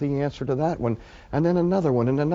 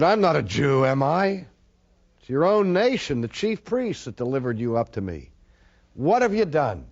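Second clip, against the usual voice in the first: forceful reading; 5 dB louder than usual. Acted. Preacher reads Pilate's words aloud.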